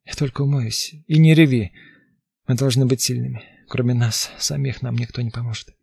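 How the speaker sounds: firm order through numb lips. Acted. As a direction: command with numbed mouth. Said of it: "онемевшими губами".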